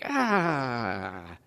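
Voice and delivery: long falling "ahh" of frustration; desperate groan. Acted. Struggling for solutions to the problems, desperate groan. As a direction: let out a drawn-out, exasperated cry. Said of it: "you're getting increasingly desperate for solutions".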